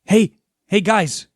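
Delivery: loud, urgent cop on the phone; Beat Cop voice. Acted. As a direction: call out like a worried cop. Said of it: "And it's Beat Cop's voice".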